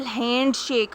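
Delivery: "हैंडशेक" slowly, both halves weighted; "हैंड" and "शेक" separated, evenly stressed; equal stress on both syllables. Shown as a demonstration. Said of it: "दोनों stressed होते हैं".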